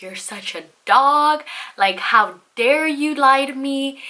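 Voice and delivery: slow, indignant retold accusation; acted indignation. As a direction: act out a drawn-out telling-off. Acted quarrel with cheating ex.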